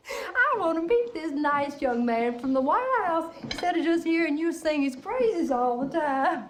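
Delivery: high, bubbling with laughter; laughing gush. Acted. Mother gushing to the gentleman caller with a laugh. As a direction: gush over the guest, laughing.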